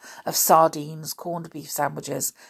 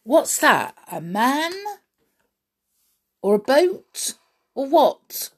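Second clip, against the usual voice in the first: higher, louder eager questions; 9 semitones higher, 5 dB louder than usual. Acted. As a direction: fire off the questions, eager and high. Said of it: "said George at once".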